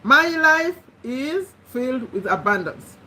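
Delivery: spoken again as an affirmation; affirmation repeated. Shown as a demonstration. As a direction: repeat it so they can write it down. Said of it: "these are the statements you're going to write".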